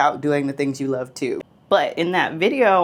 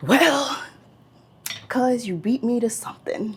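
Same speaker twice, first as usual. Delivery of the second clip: slightly downcast, self-pitying, a bit higher voice; 8 semitones higher than usual. Retelling a phone call from a distraught cousin, mimicking a little sad voice. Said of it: "he's a little sad. You can hear it in his voice".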